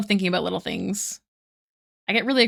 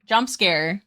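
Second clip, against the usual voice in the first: mock jump scare. Shown as a demonstration. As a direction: pop the line out like a playful fright.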